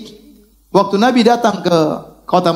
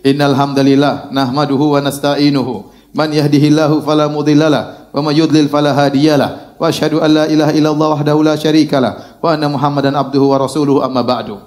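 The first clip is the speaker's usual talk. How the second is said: low, measured recitation on a level tone; steady Arabic khutbah opening; Arabic sermon-opening recitation; 4 semitones lower than usual. Acted. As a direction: recite the formula evenly, pitched down. Recites the Prophet's opening sermon formula.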